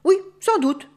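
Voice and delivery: put-on high, loud old-wolf voice; grandfather wolf. A narrator's reading. Grandfather wolf answering the aunt, high and loud. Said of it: "dit grand-père loup".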